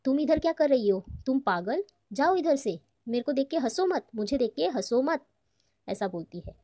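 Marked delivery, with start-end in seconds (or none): 0.1-5.2 angry. Acted. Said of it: "बोल रही है वो भड़क के".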